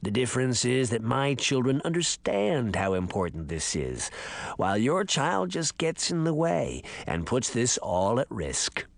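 low, creaky ancient man. Acted. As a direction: creak it out like a parched old man. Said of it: "the voice crackled".

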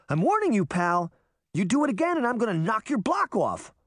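threatening. A narrator's reading. Threatening the headless rider.

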